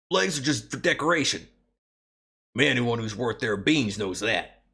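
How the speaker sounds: put-on lightly Southern cowboy accent for Sane; a hint of a Southern belle shrine maiden; easygoing Southern accent, mildly put on; Southern drawl. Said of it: "Do a Southern voice".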